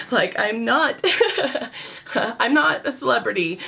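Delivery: laughing while she talks; amused, brushing off the fuss. Real, not acted. Laughing off fans' excitement.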